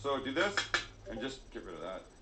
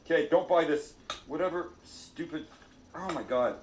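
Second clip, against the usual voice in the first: "don't buy this" raised and slowed in comic frustration; mock angry rant; 3 semitones higher, 5 dB louder, slower than usual. Real, not acted. Fed up with the mandoline, warning viewers in mock anger. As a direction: vent at the mandoline, half laughing. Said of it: "I'm so mad at this".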